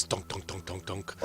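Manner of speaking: soft, repeated "dunk" knocks; imitated knocking. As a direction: quietly mimic knocking on a door. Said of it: "so he kind of knocks".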